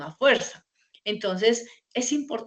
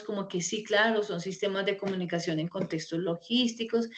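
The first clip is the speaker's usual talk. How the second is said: demotivated mumble; 6 dB quieter than usual. Shown as a demonstration. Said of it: "van a ir así como desmotivados".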